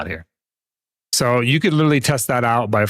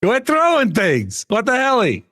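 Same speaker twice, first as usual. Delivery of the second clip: high-pitched whine; 11 semitones higher, slower than usual. Real, not acted. Complaining about being hit.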